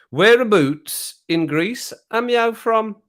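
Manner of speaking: put-on high, slow Black Country accent. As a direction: ask it in a drawn-out Black Country voice. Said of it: "in my black country accent".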